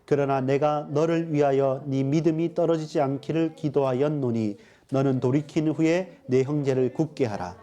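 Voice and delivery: measured, even-toned recitation of a Bible verse; scripture reading. Real, not acted. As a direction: read the verse aloud steadily, as if leading a congregation. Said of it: "같이 한번 읽어보겠습니다". (성경 구절을 또박또박 낭독하는 어조)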